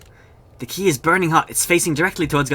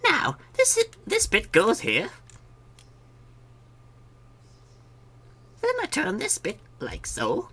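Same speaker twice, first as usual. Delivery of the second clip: npc voice; 11 semitones higher, 4 dB quieter than usual. Acted. Voicing NPC fiddling with key.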